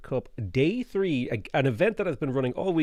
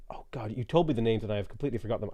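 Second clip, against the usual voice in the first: whispering; 2 semitones lower, 6 dB quieter, faster than usual. Real, not acted. Forgot the team names, embarrassed.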